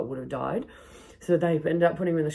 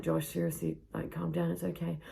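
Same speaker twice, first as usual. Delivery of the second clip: soothing; 3 semitones higher, 7 dB quieter than usual. Retold or imitated. Calming him down.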